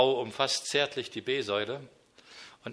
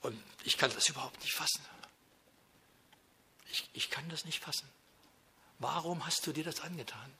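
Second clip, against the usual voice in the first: soft, awed prayer, much softer; hushed, grateful prayer to the Lord at the cross; moved prayer; 4 dB quieter than usual. Pretend. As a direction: marvel quietly at what the Lord endured. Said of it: "Und da denke ich".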